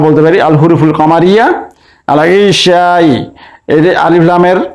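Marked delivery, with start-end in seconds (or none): 2.1-3.1 "আল ইশাই" with the article's lam audible; lam pronounced. Shown as a demonstration. Teacher showing students the lam sounded in "আল ইশাই". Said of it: "লাম উচ্চারণ হচ্ছে".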